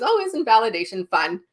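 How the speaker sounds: ordinary talk, nothing marked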